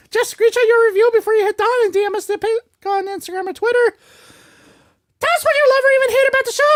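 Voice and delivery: brisk, peppy scripted plug; promo read. Acted. Asking listeners for five-star reviews, promo read. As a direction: rattle through the listener plug with energy.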